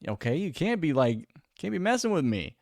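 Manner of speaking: high, loud mock outrage; indignant protest. Telling drunk women he's bald, mock indignant. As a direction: play up being offended. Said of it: "And I'm like".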